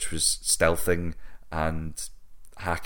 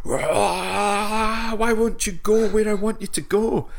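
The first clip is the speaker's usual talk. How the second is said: high-pitched frustrated whine, near crying; mock whining cry; 6 dB louder, slower than usual. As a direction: whine it like a sulking child. Frustrated whine at game controls.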